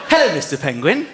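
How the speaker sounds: sulky low mock presenter hello; grudging greeting. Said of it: "All right, fine".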